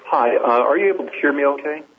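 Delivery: echoey voice in a stairwell; echo chamber. Real, not acted. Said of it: "you sound like you're in an echo chamber".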